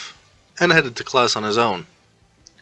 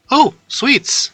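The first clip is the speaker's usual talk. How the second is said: excited squeal; 14 semitones higher than usual. A narrator's reading. Girl spots the sweets.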